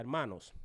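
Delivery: "Hermanos" loud and falling, then silence; pause after HERMANOS. Shown as a demonstration. Teacher showing a pause before speaking, firm "Hermanos" set apart. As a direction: address them with "Hermanos" and stop. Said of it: "usted hace una pausa".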